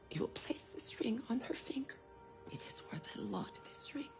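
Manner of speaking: put-on soft secretive whisper to a child; tender whisper. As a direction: share a family secret gently. Mother whispers to son.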